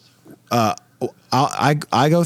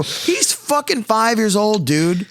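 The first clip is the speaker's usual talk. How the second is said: retold outburst; 8 semitones higher, much slower than usual. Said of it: "I go".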